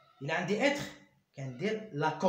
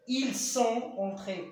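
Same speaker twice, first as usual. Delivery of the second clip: slow, loud and high, entré stretched; teacher stressing a model sentence; emphasized example; 6 semitones higher, 6 dB louder, much slower than usual. Shown as a demonstration. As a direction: hold each word of "Il est entré" out for the class. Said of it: "E accent S".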